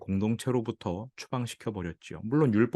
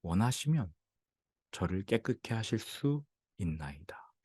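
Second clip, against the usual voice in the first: humble plea; 4 dB quieter than usual. Retold or imitated. Leper begging Jesus to cleanse him, soft humble plea. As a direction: plead gently and reverently, as if bowed down. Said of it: "엎드려 간구합니다".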